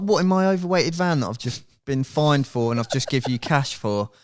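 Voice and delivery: mock-outraged, protesting the absurd demand; indignant protest. Retelling his indignant protest to police.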